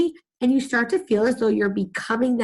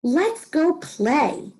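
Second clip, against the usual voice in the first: higher, slow, drawn-out eager call; excited; 7 semitones higher, much slower than usual. Shown as a demonstration. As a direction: stretch it out with excitement. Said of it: "make my voice sound excited".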